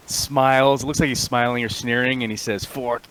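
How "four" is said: slow, deliberate recital of a serial number; captive's defiant reply. Acted. Prisoner sneering at his captor, slow recital. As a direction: spit out the number slowly with a sneer.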